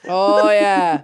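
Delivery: lightly drawn-out Midwest "oh, yeah"; a Midwestern "oh" that slides down; Midwestern dialect. Shown as a demonstration. Host showing off how tonal Midwest talk is, Midwestern dialect.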